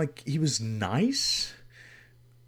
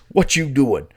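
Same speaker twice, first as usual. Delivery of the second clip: imitating Terry; 3 semitones higher, 9 dB louder than usual. Terry calling his friend early asking what he's doing, imitated. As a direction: lean into Terry's lazy voice, louder. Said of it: "This is how he talked".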